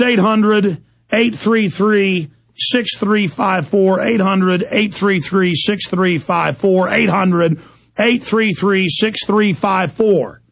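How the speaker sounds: slow, deliberate digit-by-digit reading; slow dictation. Real, not acted. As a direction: spell out the number for listeners to write down. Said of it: "I'm gonna give you a number".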